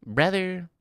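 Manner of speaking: high drawn-out Brother; Sketch impression. Streamer repeating his Sketch catchphrase impression, high. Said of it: "That's me doing my Sketch impression".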